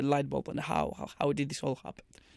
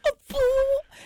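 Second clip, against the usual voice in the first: high-pitched British attempt, cut short; hammed-up British accent, loud; 5 dB louder, faster than usual. Shown as a demonstration. Another go at bottle of water, mock British. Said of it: "Can you do a British accent".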